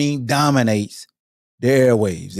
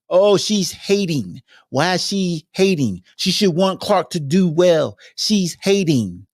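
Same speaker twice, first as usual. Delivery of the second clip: higher, slow whiny mock complaint; whiny fan; 5 semitones higher, slower than usual. Host mimicking whiny Clark fans in a higher nasal whine. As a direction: sneer it like a petulant fan.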